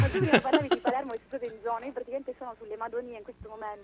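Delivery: phone line sound; over the phone. Real, not acted. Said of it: "Adesso un po' male".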